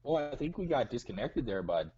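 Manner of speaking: put-on Minnesota accent. Caller keeps the Minnesota voice after reconnecting, mildly. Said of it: "Why are you talking like that?".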